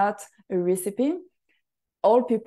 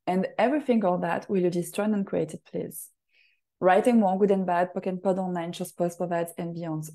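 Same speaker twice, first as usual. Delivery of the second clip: rapid ritual recitation. Acted. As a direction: rattle off the clearing statement like a practised incantation. Recites ritual clearing statement.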